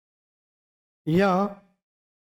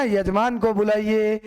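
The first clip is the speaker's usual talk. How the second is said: slow, drawn-out priestly call; a light imitation of a temple priest summoning; lightly voiced pandit calling the host; imitating the pandit. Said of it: "पंडित जी बहुत बार बोलते हैं ना".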